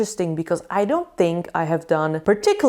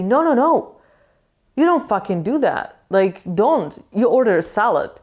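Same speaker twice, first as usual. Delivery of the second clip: firm scolding friend; 2 semitones higher than usual. Retold or imitated. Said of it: "he's always like".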